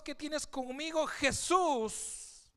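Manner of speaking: high, loud cry to Jesus. Acted. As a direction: shout the question up high. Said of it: "clama a gran voz".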